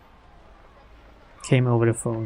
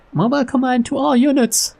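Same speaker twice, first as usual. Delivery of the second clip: a higher, crisp radio call; radio commander; 10 semitones higher than usual. Acted. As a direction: announce it like a police dispatch. Director on the radio.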